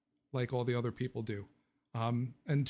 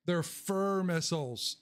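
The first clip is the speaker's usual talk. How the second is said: excited; 4 semitones higher, slower than usual. Real, not acted. Gushing over his dogs.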